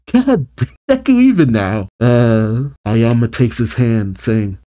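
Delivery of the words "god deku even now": high, emotional outburst with a laugh; real welling-up, pitch jumping high; getting emotional. Real, not acted. Fan moved by Deku's moment, getting emotional. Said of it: "I'm getting all emotional".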